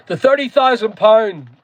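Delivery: broad Northern Irish pronunciation of THIRTY THOUSAND POUND; Northern Irish accent. Real, not acted. Streamer slipping into home speech mid-explanation, Northern Irish accent. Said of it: "I said that with a Northern Irish accent".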